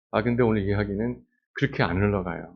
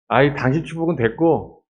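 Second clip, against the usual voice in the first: a louder, higher huffy rebuff; indignant refusal; 5 semitones higher, 5 dB louder than usual. Pretend. Hannah rejects priest Eli's blessing, huffy and loud. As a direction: throw the blessing back at him.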